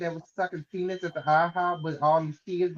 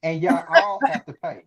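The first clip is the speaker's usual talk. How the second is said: horror trailer voice. Pretend. Trailer-style threat, building.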